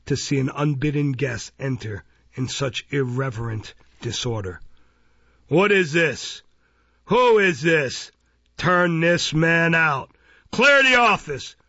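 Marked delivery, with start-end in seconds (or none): 5.5-11.6 loud outrage, climbing to a high shout; Mister Fang, indignant cry. A narrator's reading. Magistrate furious at an unbidden guest, crying out. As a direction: demand answers slowly and loudly, then shout the last order. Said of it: "cried Mister Fang".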